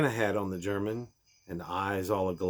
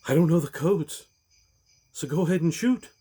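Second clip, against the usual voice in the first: higher, louder defiant voice; defiant hostage; 8 semitones higher, 4 dB louder than usual. Acted. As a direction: throw it back at him. Takagi answering the villain.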